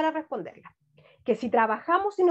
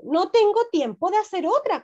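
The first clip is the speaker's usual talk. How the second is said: mother's voice; 5 semitones higher, 3 dB louder than usual. Acted. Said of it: "contestó la mamá".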